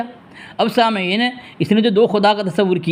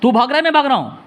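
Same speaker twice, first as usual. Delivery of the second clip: raised, higher-pitched argumentative voice; heated arguing; 5 semitones higher than usual. Real, not acted. Accusing the caller of running from reading, raised angry voice. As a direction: push back hard at the opponent.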